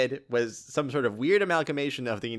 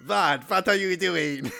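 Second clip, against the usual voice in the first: slow put-on accent impression; lightly voiced, stretched-out alien question; Jinko; slower than usual. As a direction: show off your imitation of a crewmate. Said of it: "Jinko, I'm better than her".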